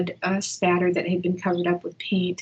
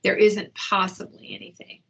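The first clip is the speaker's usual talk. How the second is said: calm reassurance. Shown as a demonstration. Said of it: "That's what I do with Donovan".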